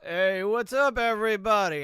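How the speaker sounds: a light send-up of a drama YouTuber; smug YouTube drama host; Keemstar impression. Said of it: "Keemstar, Killer Keemstar".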